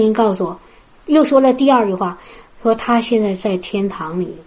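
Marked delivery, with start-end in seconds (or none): 2.8-4.3 gentle comforting voice. Retold or imitated. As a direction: ease it out gently with love. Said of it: "非常轻柔的声音，带着安慰". (轻柔安慰的声音)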